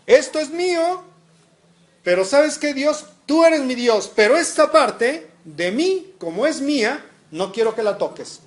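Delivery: mock-defiant believer setting limits; possessive refusal. Voices rich youth refusing God.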